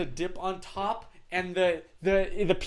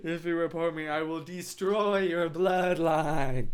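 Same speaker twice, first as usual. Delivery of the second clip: mock auto-tune threat. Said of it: "my attempt at that auto-tune effect".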